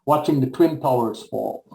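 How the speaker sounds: measured, solemn recital of a poem; poem reading. Acted. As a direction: read it as a spoken-word poem, giving each line weight. Reads own poem aloud.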